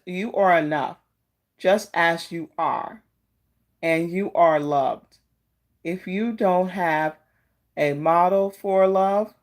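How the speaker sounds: slow, gentle reading of a card message; oracle card reading. Acted.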